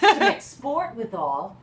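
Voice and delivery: laughing. Acted. Laughing through a teasing line.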